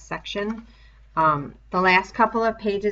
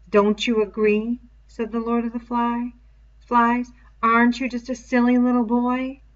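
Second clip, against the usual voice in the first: higher, louder sneering taunt; mocking beast; 5 semitones higher, 6 dB louder than usual. The pig's head jeering at Simon, louder and higher mockery. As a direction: jeer at him like a demon mocking a child.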